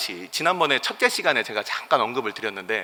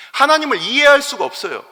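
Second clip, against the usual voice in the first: Cain's indignant outburst, loud and raised; angry complaint; 4 semitones higher, 6 dB louder than usual. Retold or imitated. Preacher voicing Cain raging at God, loud and high. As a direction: rail at God for refusing the offering. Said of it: "이러면서 이 가인이 화를 내는".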